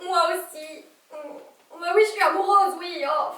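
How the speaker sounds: high, tearful admission. Acted. Journalist confessing love by phone, tearful. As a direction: let laughter tip into crying. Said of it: "je vous ai entendu pleurer".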